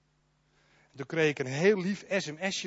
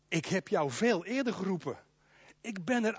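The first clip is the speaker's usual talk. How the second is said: soft voice of God; 3 semitones lower, 8 dB quieter than usual. Acted. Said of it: "Maar God zegt".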